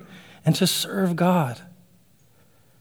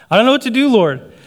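higher, helpless plea; pleading believer; 7 semitones higher, 4 dB louder than usual. Acted. Worried believer to the Lord, helplessly pleading. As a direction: raise the pitch in acted helplessness.

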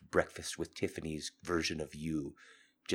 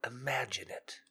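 whispering; 7 semitones higher than usual. Real, not acted. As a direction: whisper it like a secret. Intimate invitation, hushed.

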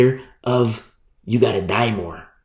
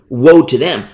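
loud warning; 7 dB louder than usual. Real, not acted. Preacher denouncing manipulative pastors.

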